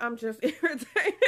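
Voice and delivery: laughing it off. Retold or imitated. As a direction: say it through a laugh. Her quoted reply.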